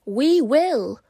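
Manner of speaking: loud, high honk of a goose; honking geese. Acted. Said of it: "honked the geese".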